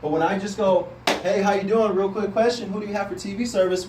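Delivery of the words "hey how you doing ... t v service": rushed pitch, no pause at all; loud run-on sales opener, louder than usual; pushy salesman, no pause. Shown as a demonstration. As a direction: rattle it off in one breath like a pushy salesman. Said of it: "with no pause, what do I sound like? I sound like a salesman".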